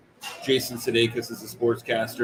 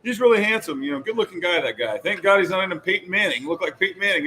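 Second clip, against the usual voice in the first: host voice; 5 semitones higher than usual. Retold or imitated. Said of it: "he's just like".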